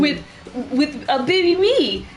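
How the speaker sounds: put-on high, slow, wide-eyed child's wonder; a kid tugging at mom, thrilled; excited kid. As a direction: wake mom up in amazement.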